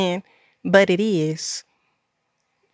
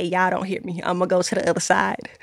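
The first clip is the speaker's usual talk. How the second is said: quick, much softer preacher aside, tossed off; preacher's aside; 5 dB quieter than usual. Pretend. Viewers hear her softly toss off a mock preacher line. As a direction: mutter it fast like a preacher's throwaway line. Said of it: "if I was a preacher, I would say".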